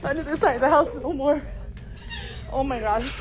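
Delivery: high, frightened shout with a laugh; panicked shout. Real, not acted. Woman refusing to return to that side, panicked shout. Fleeing after a scare.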